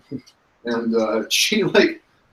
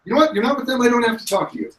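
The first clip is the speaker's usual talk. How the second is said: indignant refusal; 9 semitones higher, much faster than usual. Acted. Game master voices captive refusing players.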